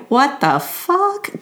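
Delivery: imitating a stunned, fuming wife; fuming disbelief. Wife fuming at husband's lunch meat comment, slow mock outrage. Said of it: "she starts fuming".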